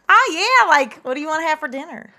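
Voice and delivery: lightly put-on country twang. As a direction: let a touch of twang slip out. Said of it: "does the twang come out".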